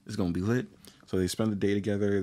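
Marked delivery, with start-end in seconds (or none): 0.0-0.7 mildly hyped retold reaction; mock pumping yourself up; a touch of giddy anticipation; getting hyped. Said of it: "getting hyped".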